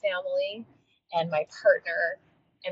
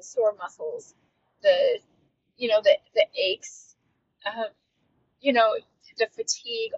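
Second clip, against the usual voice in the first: holding back tears; 12 semitones higher than usual. Real, not acted. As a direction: voice cracking high with real emotion. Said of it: "I'm just gonna cry through this".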